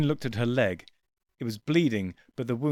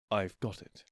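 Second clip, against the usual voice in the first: softly, barely voiced; quiet; 3 semitones lower, 8 dB quieter than usual. A narrator's reading. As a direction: say it low and hushed. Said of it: "the doctor said quietly".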